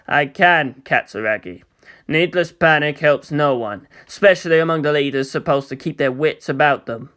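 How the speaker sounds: a touch of icy control; cold commander. Acted. Cold commander voiced low.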